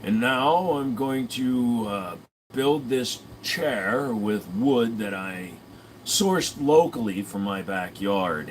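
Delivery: slow, lightly deadpan Ron Swanson voice; slow deadpan mimicry of Ron Swanson; Ron Swanson impression. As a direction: drag out the words like a lightly done Ron Swanson. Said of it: "a little bit of a Ron Swanson".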